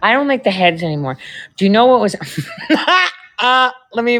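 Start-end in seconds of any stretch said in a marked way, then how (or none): 2.2-3.1 high-pitched burst of laughter; sudden laugh. Real, not acted. Cracking up before telling the story about shrimp heads, sudden laugh.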